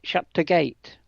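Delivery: Lancashire accent, "the" swallowed to a quick t' before gate. Shown as a demonstration. Mother showing how Lancaster folk talk: Lancashire accent. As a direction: clip "Shut the gate" the Lancaster way, barely a t' for the. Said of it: "they say".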